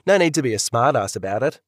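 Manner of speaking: ordinary talk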